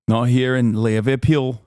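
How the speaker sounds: mock Liverpool accent; Scouse accent. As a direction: put on an exaggerated Scouser voice. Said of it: "what the Scouser accent sounds like".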